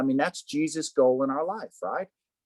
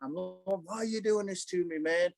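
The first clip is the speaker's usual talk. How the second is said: mock-frustrated griping at the Lord; retold angry complaint; 5 semitones higher than usual. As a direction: act out protesting to God without raising the volume. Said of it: "that anger right there".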